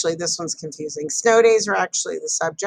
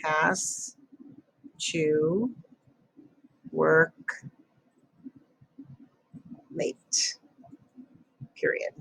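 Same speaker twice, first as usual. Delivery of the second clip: dictating; 2 semitones lower, 7 dB quieter, much slower than usual. Shown as a demonstration. Writing sentence while saying it.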